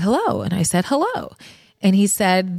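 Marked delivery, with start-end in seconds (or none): 0.0-0.4 a retold caller's hello, only slightly lower in tone; the mystery caller's greeting, lightly voiced; deep male voice. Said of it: "this deep voice said". 0.8-1.3 a higher, softer hello on the phone; picking up the phone, unsure who's calling; her own answer. Retold or imitated.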